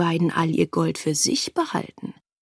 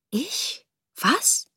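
startled; 6 semitones higher, 3 dB quieter than usual. A narrator's reading. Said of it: "fragte das Mädchen erschrocken".

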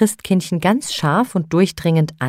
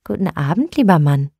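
friendly. Acted. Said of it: "sagte freundlich".

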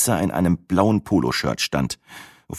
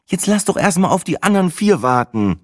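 high-pitched, mildly irritated reply; slightly annoyed; 12 semitones higher than usual. A narrator's reading. Sina wanting to wait for the others, slightly annoyed. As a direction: brush him off with a touch of impatience. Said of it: "erwiderte sie ein klein wenig genervt".

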